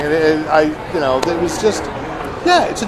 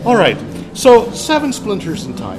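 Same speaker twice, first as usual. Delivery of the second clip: mock Irish accent; 4 semitones higher than usual. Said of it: "easier to do in this accent".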